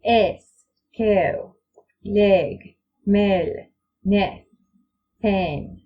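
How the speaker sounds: each word with a flat eh instead of the diphthong; Silvan eh sound. Shown as a demonstration. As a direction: say them the Silvan elf way, plain eh. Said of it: "That makes the words sound like this".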